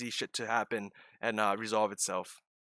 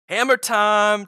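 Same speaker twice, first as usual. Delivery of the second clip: excited shout; 8 semitones higher, 11 dB louder, much slower than usual. Real, not acted. Excited call over trade.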